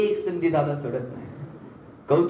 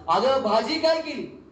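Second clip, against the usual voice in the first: slow, drawn-out call right at her ear; a mild mock shout, spelled out for a deaf wife; lightly hammed-up yell in her ear; 3 semitones higher, slower than usual. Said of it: "जोरात कानात ओरडला".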